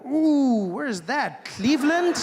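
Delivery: high, loud bursts of wonder; mock horrified curiosity. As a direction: gawk aloud at what is on screen. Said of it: "I'm like".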